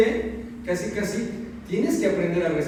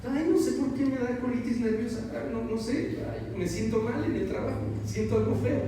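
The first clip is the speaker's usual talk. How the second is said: higher, softer plaintive whine; whiny complaint; 6 semitones higher, 3 dB quieter than usual. Retold or imitated. Worker whining to himself about colitis, plaintive and higher. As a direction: moan about feeling sick at work.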